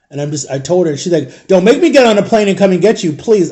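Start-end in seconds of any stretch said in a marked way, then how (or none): 1.5-3.5 imitated warning. Jama's scolding phone warning retold.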